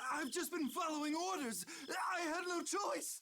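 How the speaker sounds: frantic, pleading shout; desperate pleading shout. Acted. Cornered noble pleads for his life.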